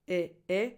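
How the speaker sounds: e, e as the short lax I; lax vowels. Shown as a demonstration. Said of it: "has two lax I vowels".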